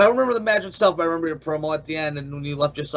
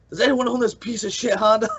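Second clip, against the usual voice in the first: higher-pitched mock announcement to the room; retold calling out; 5 semitones higher than usual. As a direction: imitate someone asking a whole room. Retold call to whole room.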